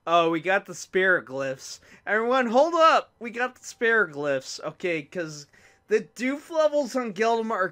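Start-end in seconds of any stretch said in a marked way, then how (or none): 2.1-4.6 loud, high excited announcement; calling out. Real, not acted. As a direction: halt the whole audience with a raised voice. Calls everyone to stop and listen.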